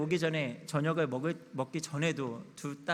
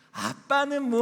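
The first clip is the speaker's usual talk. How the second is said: put-on loud high-pitched child voice. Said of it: "판단을 받는 아이가 저에게".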